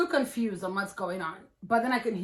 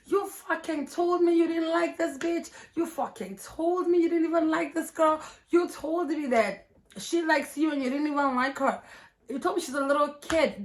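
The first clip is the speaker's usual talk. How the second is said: higher-pitched, mildly heated imitation; mock-indignant, pitched up; retold accusation; 5 semitones higher than usual. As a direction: imitate her listing his lies. Retold girlfriend accusing her man.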